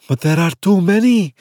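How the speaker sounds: out of breath, urgent; panting. Acted. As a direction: pant it out after running. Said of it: "Barisha panted".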